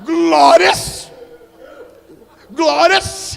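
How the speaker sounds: high, very loud shout of glory; shouted praise. Real, not acted. Celebrating the donation. (grito de louvor muito alto)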